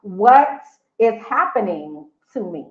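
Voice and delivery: asking where he went, voice cracking; retold crying plea. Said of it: "I immediately started crying because I was like".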